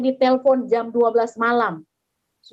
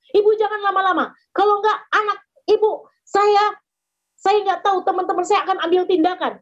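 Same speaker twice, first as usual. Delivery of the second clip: higher, impatient mock threat; angry caller; 6 semitones higher than usual. Scam caller angrily telling the mother to hurry. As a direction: press her with a lightly angry threat. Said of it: "Dia marah saya".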